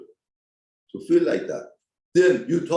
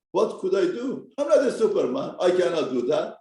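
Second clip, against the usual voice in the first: mild anger; 3 semitones higher than usual. Retold or imitated. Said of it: "Yaakov got angry at Rachel".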